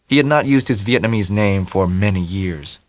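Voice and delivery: ordinary delivery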